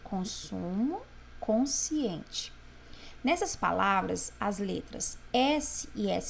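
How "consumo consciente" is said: consumo and consciente said apart, stretching the S sound; sounds shown clearly. Shown as a demonstration. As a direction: dwell softly on each sound of consumo, consciente. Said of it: "Olha o som". (consumo, consciente, devagar, mostrando o som do S)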